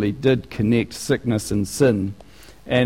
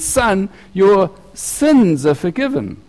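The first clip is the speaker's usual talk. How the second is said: higher, slow, deliberate words of forgiveness; Jesus's gentle pronouncement; 7 semitones higher, slower than usual. Acted. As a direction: pronounce it slowly, as the real surprising twist. Jesus speaks to paralyzed man.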